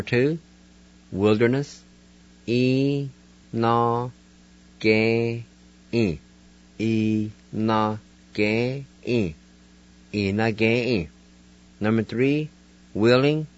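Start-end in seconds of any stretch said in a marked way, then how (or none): 2.5-11.1 "E na Ge-in" in syllables, then "E-na-ge-in" joined, stress on the first E; careful Cherokee word. Shown as a demonstration. Teacher to Cherokee learners, modelling the word wilderness. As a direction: sound out "E-na-ge-in" slowly, then as one word. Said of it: "go back and pronounce these words".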